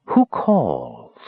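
low, drawn-out eerie summons; disembodied voice. A narrator's reading. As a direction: intone it like a distant spirit. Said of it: "the voice asked again".

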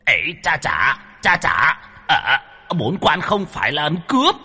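high, flustered yelps; a demon caught off guard, squealing; yelping in alarm. Acted. Demon dodging pillows, yelping high and flustered. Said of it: "mồm la lên oai oái".

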